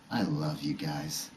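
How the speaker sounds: slow, soft, tender delivery; tender retold affection. Pothead father to his kids after a bad day, tender. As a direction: voice a mellow dad, taking his time.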